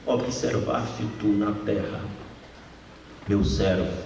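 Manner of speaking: grave e lenta, solene; voz de Deus solene. Acted. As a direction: fale como Deus perguntando ao acusador. Pregador cita Deus a Satanás. (voz solene de Deus)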